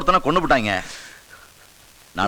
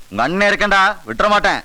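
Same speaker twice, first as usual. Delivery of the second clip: raised, higher-pitched promise; forceful vow; 5 semitones higher than usual. Acted. Boss vows to his bereaved follower he will act, forceful. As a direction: pledge it with rising force.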